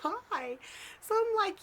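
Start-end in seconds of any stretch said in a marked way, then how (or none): 0.0-0.6 retold anxious thought, pitched up slightly; mock freaking out, breath held back; freaked-out disbelief. Telling of Gary knocking at midnight, freaked-out disbelief.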